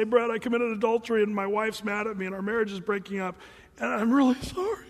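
confession building to a loud mock plea; hammed-up penitent husband; imitated tearful confession. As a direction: act out weeping remorse, swelling at the end. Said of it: "and they're weeping and crying".

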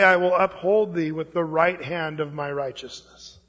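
slow, measured verse with long pauses; scripture reading. Acted. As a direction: read it out solemnly, phrase by phrase. Reads the Bible verse aloud.

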